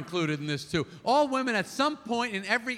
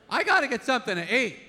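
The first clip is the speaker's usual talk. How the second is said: mock shouted demand; 2 semitones higher, faster than usual. Shown as a demonstration. Husband announcing hunger, barking it out. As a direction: bark it like a demand. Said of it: "If I said it like that".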